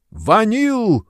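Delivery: высокий громкий крик «Ванил!»; заори имя демона во весь голос. A narrator's reading. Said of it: "заорал Кугель". (Кугель зовёт демона на помощь: громкий ор)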